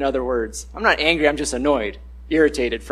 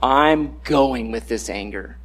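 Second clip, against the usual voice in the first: defiant, slow; 4 semitones lower, slower than usual. Retold or imitated. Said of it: "and I say".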